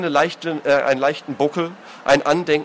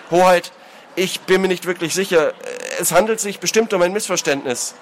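higher-pitched placating plea; anxious appeal; 5 semitones higher than usual. Acted. Brother interceding with the angry lord, anxiously. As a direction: step in to soothe him.

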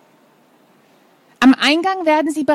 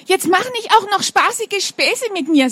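annoyed; 7 semitones higher than usual. Acted. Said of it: "sagt sie verärgert".

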